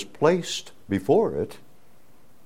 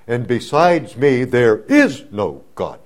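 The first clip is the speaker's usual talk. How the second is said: proclaiming as God; 5 dB louder than usual. Acted. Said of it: "identifies himself as Yahweh".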